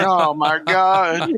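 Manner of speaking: slow, drawn-out mock dismay; laughing, exasperated groan of disbelief; retold dismay. Despairing reaction to news redneck.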